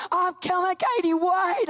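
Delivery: high panicked calling; hammed-up pleading call; flustered nurse. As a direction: imitate a frantic nurse running behind.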